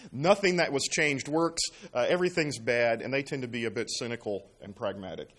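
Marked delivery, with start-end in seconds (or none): 0.1-1.6 chuckling through the words, slowed; a wry laugh at the generation's complaint. Real, not acted. Joking about the cynical generation.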